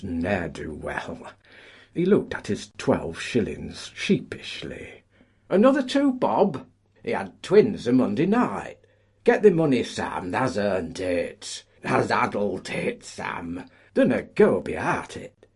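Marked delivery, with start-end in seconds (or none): 5.5-15.5 much higher, louder collier's jeering; rowdy heckling. Acted. Colliers heckle the paymaster for Sam, high and rowdy. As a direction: egg him on from the crowd.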